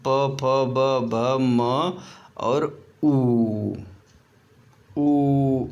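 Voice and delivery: very slow, each letter set apart; slow sounding out. Shown as a demonstration. Teacher slowly sounds out lip letters for students. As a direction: let students feel every lip sound. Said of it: "जैसे आप feel करिए ना".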